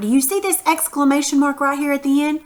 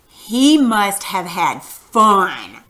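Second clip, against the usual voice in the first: very slow, emphatic "He must have had fun"; exclamation reading; 3 semitones lower, much slower than usual. Shown as a demonstration. Teacher hinting at the exclamation mark, drawn-out emphasis on "fun". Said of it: "did you hear how I read that".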